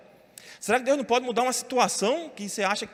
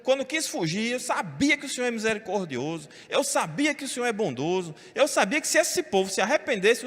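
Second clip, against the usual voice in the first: angry complaint; 4 semitones higher than usual. Retold or imitated. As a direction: gripe at God like a sulking prophet. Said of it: "Aí ele fica com raiva".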